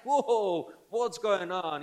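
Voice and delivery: high, loud astonished exclaim; amazed whoa. Retold or imitated. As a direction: gasp it out in wide-eyed disbelief. Philip stunned by Jesus' knowledge.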